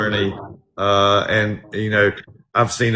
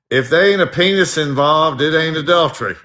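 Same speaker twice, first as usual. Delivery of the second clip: Virginia judge; 5 semitones higher, 4 dB louder than usual. Retold or imitated. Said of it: "And the judge said".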